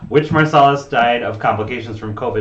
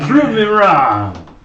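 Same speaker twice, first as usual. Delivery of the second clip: slow, loud, drawn-out dare; dramatic challenge; 8 semitones higher, 8 dB louder, much slower than usual. Pretend. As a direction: throw it down as a challenge. Echoes friend's challenge theatrically.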